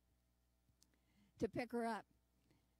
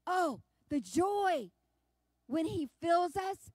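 slow, louder, exultant; rapturous joy; 2 semitones higher, 4 dB louder, slower than usual. Real, not acted. Preacher exulting over being filled, slow and ringing.

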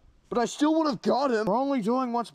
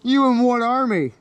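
defiant taunt; 7 dB louder than usual. Acted. Villain defies the crowd.

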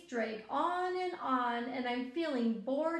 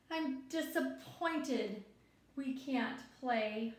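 mild disappointment; slower than usual. Acted. Teacher reads a let-down child's lines, slow and mild. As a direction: let it sag gently, slow.

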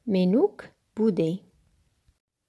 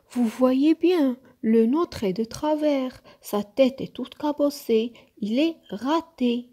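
insistent complaint; 5 semitones higher, 3 dB louder than usual. Acted. Nook argues his snowman failed.

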